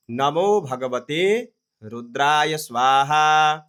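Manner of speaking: slow phrase-by-phrase recitation; mantra recitation. Shown as a demonstration. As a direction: read the mantra out in separated pieces. मंत्र टुकड़ों में पढ़ना. (रुक-रुक कर मंत्र पाठ)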